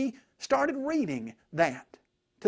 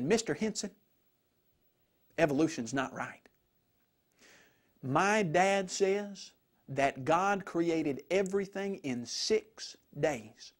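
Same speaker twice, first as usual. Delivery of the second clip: nervous but courageous; 3 semitones lower, 3 dB quieter than usual. Retold or imitated. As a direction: pick through it carefully, mildly nervous but brave. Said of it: "in a very nervous but courageous voice".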